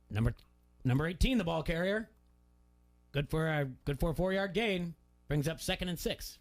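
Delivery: steady announcer read, "Number eighteen" flowing into "the ball carrier" with no breaks; a dad showing the proper way to call the play; straight PA call. Shown as a demonstration. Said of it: "You just kinda keep it straight".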